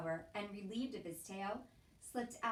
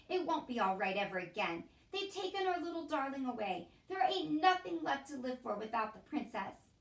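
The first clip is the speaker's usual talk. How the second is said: louder, mournful voice; grieving Cook; 4 semitones higher, 6 dB louder than usual. A narrator's reading. Cook grieving for the princess, mournful and loud.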